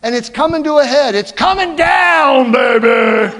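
loud, high preacher's cry; preaching shout. Real, not acted. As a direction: belt it out to the congregation. Preacher building to a climax.

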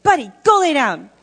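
loud scold "Buddy, go lay down"; yelling at dog. Retold or imitated. Speaker ordering the dog Buddy, loud scold. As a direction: command the dog sharply.

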